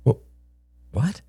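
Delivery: high, breathless stunned question. Acted. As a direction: gasp it out in shock. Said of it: "mouth and throat went dry".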